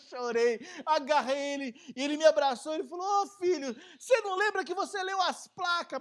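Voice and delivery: high and loud, overcome; emotional outburst. Real, not acted. Retelling tearful rescue.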